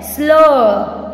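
"slow" as a drawn phonics blend; blend sound demo. Shown as a demonstration. Teacher sounding out S L for students, phonics demo. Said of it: "S L".

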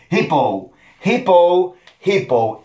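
hippo said slowly, HIP-ow; clear model word. Shown as a demonstration. Teacher drills the short word hippo for children. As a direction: hippo drilled with an English ow ending. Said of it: "La forma corta es así simplemente".

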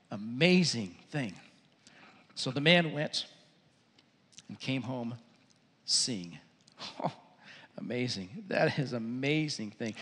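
soft, low murmur of amazement; hushed awe. Real, not acted. Preacher dwells on the healed man's homecoming, hushed. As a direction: marvel quietly, almost to yourself. Awed aside after the miracle.

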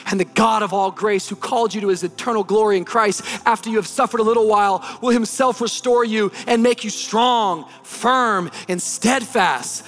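preaching scripture. Acted. Pastor preaching scripture to congregation, full pulpit voice. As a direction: preach it building to amen.

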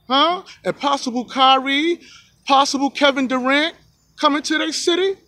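building from calm to a high, loud sales pitch; rising, pushy player making his demands; Jimmy Butler demanding. Retold or imitated. Butler tells the Timberwolves front office he's leaving, pushy and rising. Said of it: "he gonna go to the front office and tell the Timberwolves".

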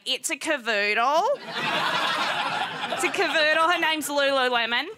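lightly voiced straight girl, barely enough energy. Tiny straight girl talking about her dog, lightly put-on straight girl voice. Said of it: "the straight girl voice".

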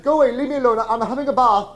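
high, loud, indignant mother; acted protest at being disturbed; shouted refusal. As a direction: yell back through a locked door. Mother shouts back through door.

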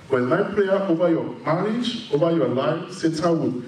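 firm preacher's blessing, rising on each phrase; prayer declaration. Acted. Pastor pronouncing a blessing over couples, firm prayer voice.

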